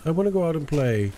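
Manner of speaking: high whiny imitation of the boy; mock the kid's plea lightly; mocking child. Gamer mimics the boy asking to play, mocking. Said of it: "This is why you beat your son?".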